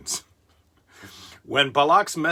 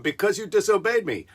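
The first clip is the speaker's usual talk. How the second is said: furious; 6 semitones higher than usual. Acted. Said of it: "her master furiously replied".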